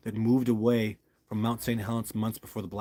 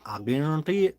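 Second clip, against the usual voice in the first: higher-pitched put-on Southern twang; Southern accent; 4 semitones higher than usual. Shown as a demonstration. Vlogger promising viewers new footage, put-on Southern accent. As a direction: lean into a Southern "guarantee". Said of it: "Just doing my Southern accent".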